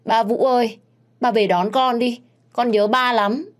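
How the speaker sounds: put-on a small girl begging her dad through tears; little girl sobbing. A narrator's reading. Little Mon crying to her father on FaceTime, high child voice. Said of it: "Con bé nhìn thấy ba thì khóc nức nở".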